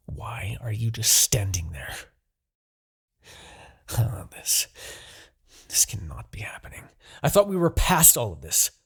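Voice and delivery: hushed disbelief, breath only; shocked whisper. Acted. Demon king whispering to his broken captive in shock. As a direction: whisper as if the ground gave way.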